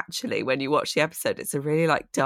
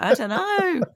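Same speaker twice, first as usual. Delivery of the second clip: laughing; 12 semitones higher than usual. Retold or imitated. Mock self-quote, laughing.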